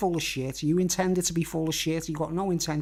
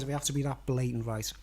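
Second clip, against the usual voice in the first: fast apologetic whisper; 3 semitones lower, 5 dB quieter than usual. Real, not acted. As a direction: whisper it quickly, half embarrassed. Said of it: "I'm sorry, guys".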